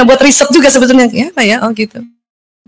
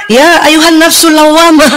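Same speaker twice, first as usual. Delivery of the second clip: a slightly sterner, less inviting call; harsher call. Retold or imitated. Angel calling the restless soul, mildly stern. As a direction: call the soul with a cold edge. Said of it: "Nggak enak kan?".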